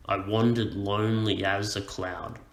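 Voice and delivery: "I wandered lonely as a cloud" bouncing onto WAN, LONE, AS, CLOUD; bouncing rhythm. Shown as a demonstration. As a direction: recite "I wandered lonely as a cloud" with alternating light and stressed syllables. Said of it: "this kind of bouncing rhythm".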